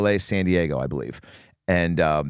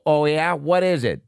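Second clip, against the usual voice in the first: higher-pitched mock questioning; playful challenge; 7 semitones higher than usual. Cop actor plays along with the girl, mock challenge. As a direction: toss the question back, pitched up.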